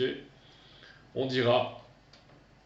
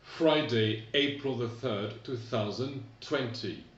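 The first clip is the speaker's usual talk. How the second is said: American date; slower than usual. Shown as a demonstration. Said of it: "Aux États-Unis, c'est un peu différent".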